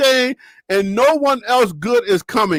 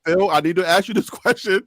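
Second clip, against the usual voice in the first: laughing; 4 semitones lower than usual. Real, not acted.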